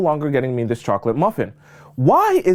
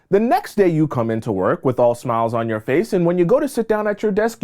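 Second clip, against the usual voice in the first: usual speaking voice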